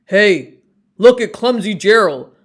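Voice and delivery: loud, fast jeering taunt; mocking sneer. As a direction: jeer at him like a bully. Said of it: "the animals all sneered".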